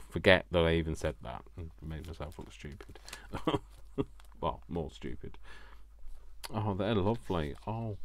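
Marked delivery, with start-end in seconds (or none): 3.0-4.4 high, breath-filled chuckle at oneself; self-mocking laugh. Real, not acted. Vlogger who made herself look stupid, self-mocking laugh. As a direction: laugh off your own silly mistake. Laughs at her own silly mistake.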